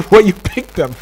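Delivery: laughing while talking; real chuckle through the line. Real, not acted. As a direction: let amusement break into the words. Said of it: "why am I laughing?".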